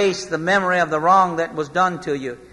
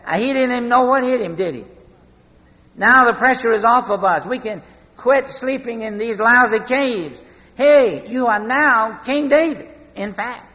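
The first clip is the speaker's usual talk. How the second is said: higher, gleeful, quick banter; excited soldiers; 4 semitones higher than usual. Retold or imitated. David's men gloating over Saul, excited. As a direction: cheer him on like a relieved soldier.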